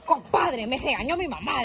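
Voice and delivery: put-on cross complaint; mock angry. Shown as a demonstration. Host prompting a young player, mock angry. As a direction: grumble it with pretend anger. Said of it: "Enojado, dígale".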